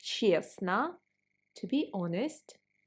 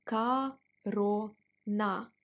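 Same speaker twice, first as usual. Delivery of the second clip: slow model word; much slower than usual. Shown as a demonstration. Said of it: "They sound similar".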